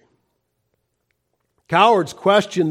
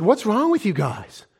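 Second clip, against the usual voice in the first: loud, higher, slow indignant call; indignant outcry; 7 semitones higher, 4 dB louder, slower than usual. Acted. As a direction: cry out in outrage at the cowardly army. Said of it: "David said".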